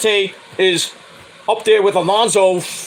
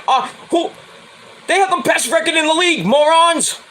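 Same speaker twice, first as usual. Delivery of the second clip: mocking retort; 9 semitones higher than usual. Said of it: "I'm like".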